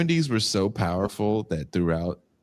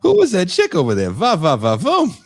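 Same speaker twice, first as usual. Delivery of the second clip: high, loud hammed-up admirer calling out; admiring old-timer; 10 semitones higher, 7 dB louder than usual. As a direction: ogle a passing woman out loud, in a high put-on voice. Mimics admiring old man.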